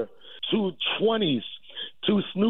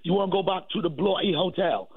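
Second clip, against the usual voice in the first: put-on British accent; 2 semitones higher than usual. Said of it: "I already speak with a British accent".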